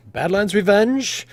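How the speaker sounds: slow, high, stretched announcer call; Talabir announcing. Acted. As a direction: draw out the team name to the arena. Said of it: "he says".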